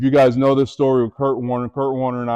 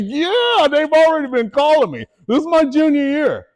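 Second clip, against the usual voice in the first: a lightly voiced, much higher casual young guy; imitating a teammate. Teammate telling him colleges call, lightly voiced casual. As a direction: toss it off like a bragging kid. Voicing the other person's reply.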